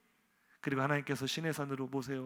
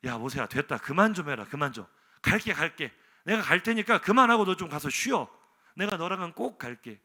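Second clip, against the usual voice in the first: 1 God giving in; 6 dB louder than usual. Acted. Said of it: "이제 하나님의 대사입니다".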